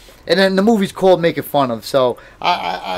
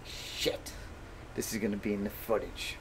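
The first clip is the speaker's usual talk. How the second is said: softly whispered worry, much quieter; whispered dread; 8 semitones lower, 21 dB quieter than usual. Retold or imitated. Whispering in dread about being caught on camera. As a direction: whisper it like you're dreading the result. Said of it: "I was like".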